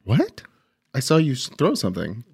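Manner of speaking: high startled "what", then a playful accusation; mock suspicion. Accusing the other driver of littering, mock suspicious. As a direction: pretend to catch someone red-handed.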